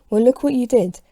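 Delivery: fuming. Acted. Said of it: "the man in his suit fumes".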